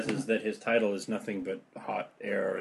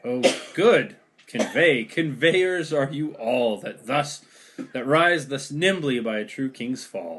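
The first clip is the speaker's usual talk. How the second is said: scornful deposed king; 3 semitones higher, 5 dB louder, slower than usual. Acted. Richard scorns his captors.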